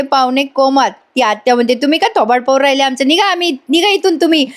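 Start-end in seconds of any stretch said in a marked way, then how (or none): 1.7-4.5 mock indignant dismissal, rising in pitch; quick start, then higher-pitched retold scolding; annoyed aunt. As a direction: act out an irritated aunt shooing guests away. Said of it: "ती आत्या चिडली".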